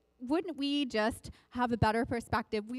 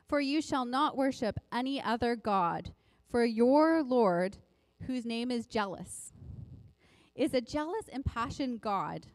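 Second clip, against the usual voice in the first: scripture reading. Acted. Reading Exodus aloud.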